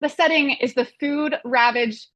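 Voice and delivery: movie description read aloud, a touch of trailer drama; lightly hammed read of a movie blurb. Host reading the official blurb to the panel, mock trailer voice.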